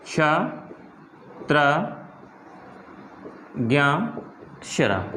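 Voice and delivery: क्ष, त्र, ज्ञ, श्र said one by one with pauses; conjuncts spelled out. Shown as a demonstration. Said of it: "दिख रहे हैं". (संयुक्त व्यंजन रुक-रुक कर)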